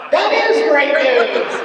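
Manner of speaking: high, slow, emphatic cheer; delighted response. Retold or imitated. Actor to producers on dropping Kakarot, delighted cry. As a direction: stretch it out, overjoyed and relieved. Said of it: "that was my first response".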